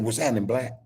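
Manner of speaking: the right way, easy What's happening, black; casual greeting. Shown as a demonstration. Showing listeners the greeting he uses, laid back. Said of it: "That's exactly how I said".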